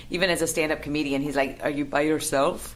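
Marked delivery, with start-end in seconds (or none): 1.6-2.7 lightly imitating dad's Bolivian accent; puzzled dad with a Bolivian accent; father's thick accent. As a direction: ask it in dad's Spanish-speaking accent. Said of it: "still the thickest accent".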